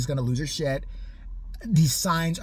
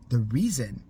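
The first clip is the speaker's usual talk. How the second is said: mean retort, laughing; 6 semitones lower than usual. Retold or imitated. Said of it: "when I was a lot meaner".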